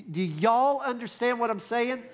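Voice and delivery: a hint of Southern Texan accent. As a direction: ask it with a touch of Texan twang. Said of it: "There was Texan there".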